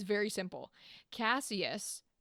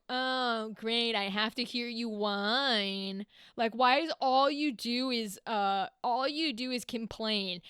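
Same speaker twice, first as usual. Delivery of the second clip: fed up; slower than usual. Acted. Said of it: "And Cassius is going".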